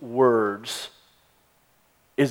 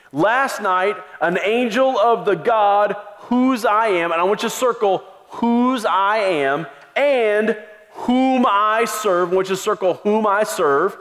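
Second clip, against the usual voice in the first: raised, urgent apostle's appeal; Paul addressing the crew; 5 semitones higher than usual. Acted. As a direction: plead with the sailors to take courage.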